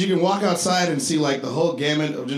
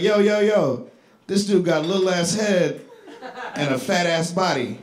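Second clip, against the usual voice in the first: imitating little girl; 3 semitones higher than usual. Girl insulting him to imaginary friend.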